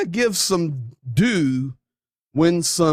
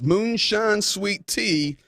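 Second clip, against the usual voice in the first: relishing; 6 semitones higher, slower than usual. Real, not acted. Slow relish after "nectar.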